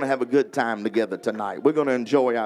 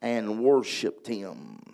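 slow solemn scripture reading; much slower than usual. Acted. Preacher reading the leper's plea to the congregation, slow and solemn. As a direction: read the verse slowly and reverently.

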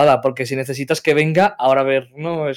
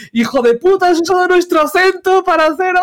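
higher, hammed-up outraged yell; mock angry insult; 14 semitones higher, 4 dB louder than usual. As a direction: play the offended Galician friends, pitched up. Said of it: "insultándome".

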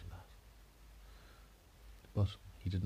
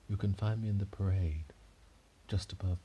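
airy ghost lady; 3 dB louder than usual. Acted. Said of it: "talking like a ghost".

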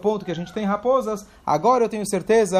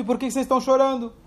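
higher, quick, a real question back at them; puzzled question; 5 semitones higher, faster than usual. Retold or imitated. Rabi Akiva throws the question back at the weeping sages, higher and quick. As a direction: ask it as if truly puzzled. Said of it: "Ele não era uma pergunta".

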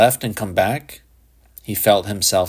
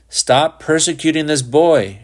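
louder, higher-pitched demand; indignant protest; 7 semitones higher, 5 dB louder than usual. A narrator's reading. Shepard defending the boy to the policeman, indignant. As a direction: step in firmly to defend him.

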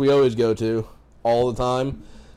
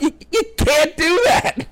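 raised voice; 4 dB louder, slower than usual. Retold or imitated. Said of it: "raising my voice at him".

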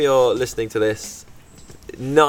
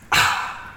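refreshed ah after drinking; satisfied sigh. Retold or imitated. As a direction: breathe out like after a big gulp. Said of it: "after you've had the drink you go".

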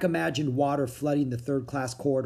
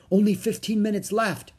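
higher-pitched, pressing alert; raised, mildly alarmed voice; urgent warning; 7 semitones higher, 4 dB louder than usual. A narrator's reading. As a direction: warn that time is running out. Urgent warning as ship sinks.

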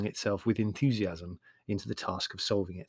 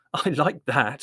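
louder, affronted retort; indignant; 3 semitones higher, 5 dB louder, slower than usual. Acted. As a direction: protest with mild indignation. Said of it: "said Larry indignantly".

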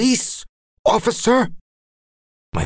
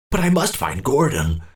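high, fixed determination; old man refusing to stop; stubborn insistence; 5 semitones higher than usual. Acted. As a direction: press on stubbornly. Old man insists despite the dying man.

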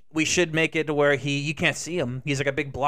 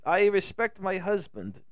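lightly put-on dutiful wife voice; mock Muslim girlfriend; 3 semitones higher than usual. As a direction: imitate an obedient girlfriend, measured. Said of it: "She's like, she's like".

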